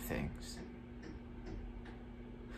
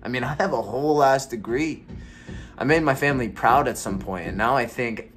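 louder, heated and exasperated; frustrated rant; 3 semitones higher, 3 dB louder than usual. Acted. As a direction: vent the years of frustration. Monologue builds into a rant.

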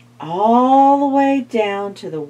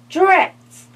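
high, loud frustrated curse; cross mummy; 10 semitones higher, 5 dB louder than usual. Acted. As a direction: spit it out like a foiled mummy. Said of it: "said the mummy".

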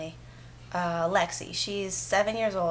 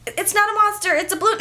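urgent reassurance; 12 semitones higher, 4 dB louder than usual. Retold or imitated. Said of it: "And I'm just like".

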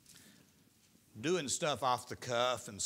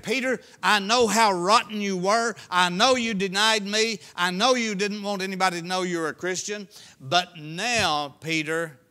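higher, much louder pleading cry; impassioned Jesus; 5 semitones higher, 12 dB louder than usual. Acted. Preacher voicing Jesus calling Peter back, loud and impassioned. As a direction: call out to him with fierce love.

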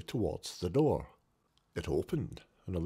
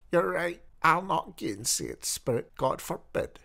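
earnest cry; 7 semitones higher than usual. Acted. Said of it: "cried Scrooge".

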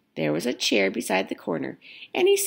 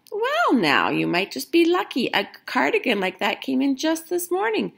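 cheerful shop assistant; 3 semitones higher than usual. Acted.

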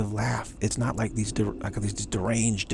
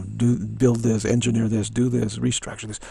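louder, punched-out list of commands; mock bossy instructions, louder; giving orders; 6 dB louder than usual. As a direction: rattle off orders with added volume. Acting out goddess giving orders.

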